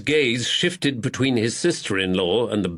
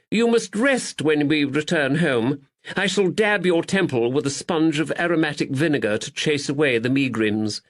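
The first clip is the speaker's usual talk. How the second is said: doting; 5 semitones higher than usual. Acted. Duddles soothes Caroline.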